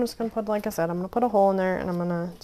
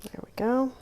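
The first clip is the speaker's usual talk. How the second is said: whispering; 4 semitones higher than usual. Real, not acted. Whispering while crafting.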